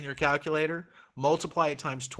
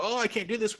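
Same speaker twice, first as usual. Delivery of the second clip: high, whiny imitation of giving up; mock frustrated student; 8 semitones higher than usual. Teacher mimicking a frustrated student, high and whiny. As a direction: whine it like a beginner throwing in the towel. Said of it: "if you get frustrated and go".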